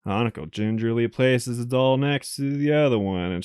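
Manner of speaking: even visual-novel reading voice; story narration. Acted. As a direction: narrate the game text steadily. Reads game narration.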